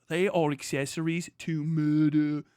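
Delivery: MURDER as "muh-duh" in a mock Australian accent. Streamer mocking an Australian commenter's word, in mock Australian accent. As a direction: imitate an Australian saying MURDER without the R sounds. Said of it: "you can't even say murder right".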